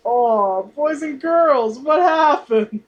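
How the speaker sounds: slow, mournful clown voice; lightly voiced sad clown; mournful sad clown whine. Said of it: "he's a sad clown".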